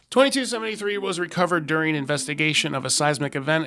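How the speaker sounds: measured reading of an official report; file narration. Acted. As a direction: read out a case file, formally. Reads the file aloud.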